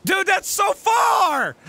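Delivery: slow, high loud groan of dismay; dismayed shout. Real, not acted. Gamer facing a huge gap, slow loud dismay. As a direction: stretch it out in disbelief.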